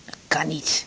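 whispered. Acted. Hushed reassurance to patient.

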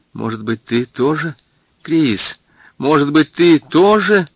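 Hari's sudden joyful guess, building; dawning joyful wonder. Acted. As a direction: let a glad bewilderment lift the question. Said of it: "глаза расширились, заблестели".

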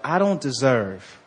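slow, low humble words; humble admission. Retold or imitated. Preacher voicing a humbled sinner, slow and low. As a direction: say it humbly, slowly. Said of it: "comes the thoughts into words".

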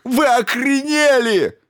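high, loud, slow outraged yell; furious howl. A narrator's reading. Stevens howls at the crew in fury. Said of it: "взвыл астрофизик".

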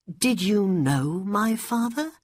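put-on high boy's voice, rising question; curious young boy. A narrator's reading. Aladdin asking a stranger about his father, high boyish voice. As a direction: ask eagerly in a high pitch.

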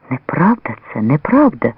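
ordinary delivery, nothing marked

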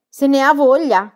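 high, very loud shrill retort; shrill shout. A narrator's reading. Pippi defending grandfather to Book, shrill shout. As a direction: shriek it back indignantly. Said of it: "gridò Pippi con voce stridula".

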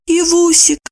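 high squeaky pleading voice; squeaky plea. A narrator's reading. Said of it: "пропищала вместо него Евдокия". (пропищала умоляюще)

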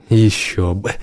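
soft chuckle, then a quiet reply; amused snort. A narrator's reading. Bartender humours the drinking customer, with a soft amused snort. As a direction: snigger quietly into the words. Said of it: "хмыкнул бармен".

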